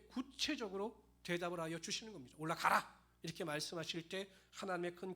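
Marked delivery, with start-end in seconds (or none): 2.4-3.0 loud, forceful order; booming command. Acted. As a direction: proclaim it loudly as a divine command. God's command voiced in the sermon. (크게 외치는 명령조)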